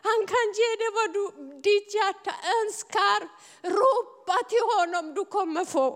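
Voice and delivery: high, urgent call to cry out to God; fervent preaching. Acted. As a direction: preach it, urging the congregation. (glödande predikan, hög och manande)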